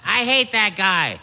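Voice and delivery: grouchy, drawn-out complaint; mildly imitated grumpy dad; dad grumbling. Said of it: "My dad was like".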